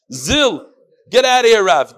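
loud gruff chase-off, half acted; butcher yelling. The butcher shouting the rabbi away from his shop, harsh yell.

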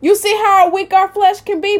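lifted, pressing repeat of the question; emphatic repeat. Acted. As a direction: drive the question home to the congregation. Preacher repeats question, rising emphasis.

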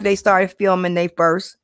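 words around a sip of coffee; while sipping coffee. Real, not acted. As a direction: talk with a coffee cup at the lips. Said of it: "excuse me, I'm sipping my coffee".

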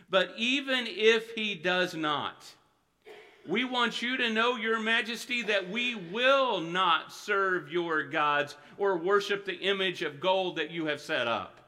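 each word slow and weighty; slow emphatic preaching. Real, not acted. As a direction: land "will not" like a vow. Slow emphatic scripture reading.

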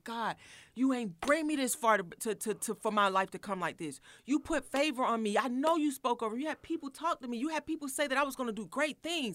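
high, loud desperate prayer; half-yelling at God in the parked car; pleading cry to God. Retold or imitated. Woman crying out to God in her car, loud and high. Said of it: "I was screaming in the car".

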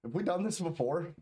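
usual speaking voice

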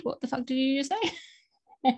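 mock offended demand, drawn out; blunt affront. Shown as a demonstration. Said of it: "I'm giving you a chance to change your mind".

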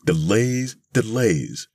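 put-on high, exasperated old-lady voice; complaining old lady. A narrator's reading. An old lady is fed up with waiting, exasperated. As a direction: grumble each word high, then let it fall. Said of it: "one old lady says".

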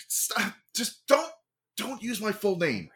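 whiny plea. Acted. Brother pleading about name.

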